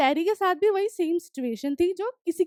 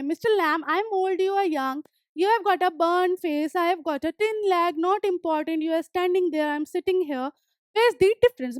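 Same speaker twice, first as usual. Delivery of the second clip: reading the story text slowly, word by word; slow reading aloud; much slower than usual. Acted. Teacher reading the story aloud to students, slow and clear. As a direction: read each English line slowly and clearly for the class.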